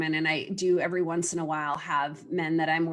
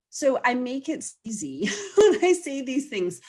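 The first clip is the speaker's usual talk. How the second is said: laughing; 6 semitones higher, 3 dB louder than usual. Real, not acted. Laughing while making a point.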